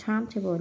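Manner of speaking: Timetable with the first syllable stressed; Timetable, weight up front on TIME. Shown as a demonstration. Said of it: "nhấn âm một".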